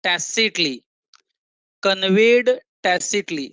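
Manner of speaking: slow, deliberate teacher's dictation pace; very slow reading. Real, not acted. Teacher reading the new material line by line, very slowly. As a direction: read it out very slowly, spacing the words. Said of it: "ये एकदम slow जाऊंगा मैं".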